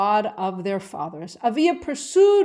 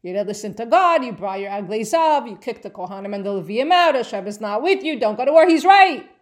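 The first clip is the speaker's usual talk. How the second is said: emphatic insistence; 5 dB louder than usual. Real, not acted. Teacher insisting loudly Avia correct.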